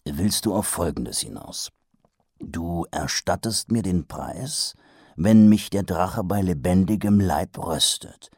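slow. Acted. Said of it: "sagte Mumm langsam".

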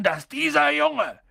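slow, high-pitched incredulous fury; growled outrage. A narrator's reading. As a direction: stretch each word in furious disbelief. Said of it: "knurrte er sie an".

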